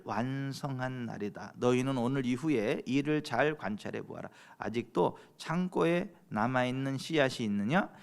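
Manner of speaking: measured, deliberate Bible reading; scripture reading. Acted. Preacher reads prophecy to the congregation, solemn scripture reading. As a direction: read out God's word slowly and firmly.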